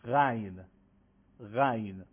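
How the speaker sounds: غین with a soft, slightly rasping, drawn-out غ; غین softly and lengthened from the throat; soft drawn ghayn. Shown as a demonstration. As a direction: rub the غ of غین gently and stretch it. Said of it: "به صورت نرم و یه مقداری ساییدگی و کشیده".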